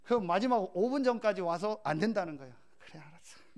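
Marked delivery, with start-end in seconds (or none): 2.8-3.5 very soft, under the breath; resigned mutter. Retold or imitated. Pastor grudgingly accepting the last-minute failure, muttered. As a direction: give in with a barely audible grumble. Acts out his irritated giving-in.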